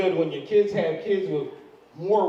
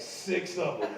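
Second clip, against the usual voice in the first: sheepish admission; 3 semitones lower, 9 dB quieter, slower than usual. Retold or imitated. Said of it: "He's like".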